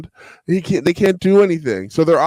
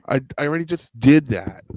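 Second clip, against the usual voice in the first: robot voice. Real, not acted. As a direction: sound like a broken robot. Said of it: "You sound like this".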